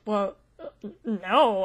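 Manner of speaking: words broken by a small awkward laugh; nervous laugh. Acted. NPC caught out, admits it.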